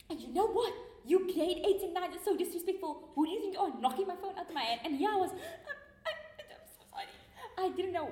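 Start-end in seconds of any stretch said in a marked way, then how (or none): 0.1-4.8 mild mock scolding, a little raised; imitating the senior girl telling her off; retold scolding. Retelling how the older girl scolded her, a mild mock shout. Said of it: "she shouted at me". 5.3-7.1 retold whispered apology.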